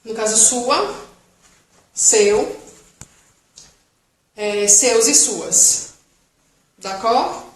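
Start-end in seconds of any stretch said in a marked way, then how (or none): 0.4-5.9 seus e suas said slowly; slow model words. Shown as a demonstration. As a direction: lay it out slowly for pupils. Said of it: "não pronuncia o S". (bem devagar, para a turma)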